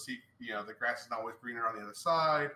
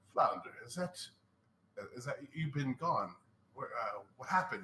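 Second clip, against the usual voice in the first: put-on gravelly voice of an old man. Describing an attraction where a character calls out for Flounder, older, gravelly voice. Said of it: "older, groveled voice, and he goes".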